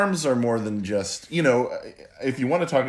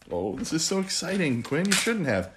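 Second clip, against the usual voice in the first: delighted opening a present; 5 semitones higher than usual. Pretend. Dad opening daughter's present.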